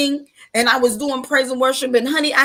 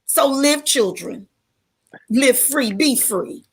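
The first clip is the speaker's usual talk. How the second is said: preaching. Real, not acted. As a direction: preach it like a testimony from the pulpit. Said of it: "I didn't mean to preach".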